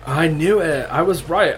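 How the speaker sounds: triumphant gloating. Acted. Brock gloats in character.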